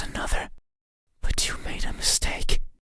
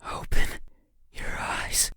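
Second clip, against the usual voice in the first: sudden command; 4 dB louder than usual. Acted. Commanding the listener.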